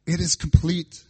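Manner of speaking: loud proclamation; loud, triumphant proclamation; proclaiming. Retold or imitated. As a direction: announce it to the Father. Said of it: "He's saying".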